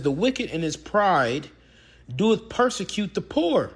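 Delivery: slow, weighty reading of the verse, each word laid down; slow preacher's recitation of a psalm; solemn scripture reading. Shown as a demonstration. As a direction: read it like scripture from the pulpit. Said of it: "It says".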